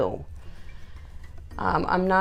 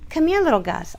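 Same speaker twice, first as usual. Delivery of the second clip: high coaxing call; 9 semitones higher than usual. Real, not acted. Calling dog closer.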